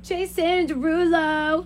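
slow drawn-out singer name drop; a singer's voice. Shown as a demonstration. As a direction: drawl the name like his song intro. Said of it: "can you do the Jason Derulo".

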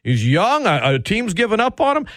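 mocking quote. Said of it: "I hear this absurd takes".

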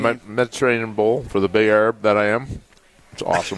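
talking with mouth full; words around a mouthful of food. Real, not acted. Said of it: "his mouth is just full".

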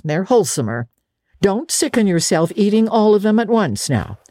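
a hint of a dry, stern elderly woman; stern Marilla. Marilla warning Anne about work, mildly stern. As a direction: lay down the rules firmly. Guardian scolds then softens.

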